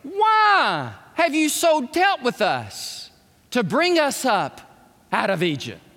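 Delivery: a hint of bitter complaint; complaining crowd. Israelites complaining to Moses, lightly voiced whine. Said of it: "Hear what they're saying?".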